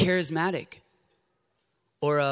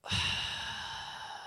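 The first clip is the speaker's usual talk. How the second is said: imitated weary sigh; 10 dB quieter than usual. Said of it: "she's going".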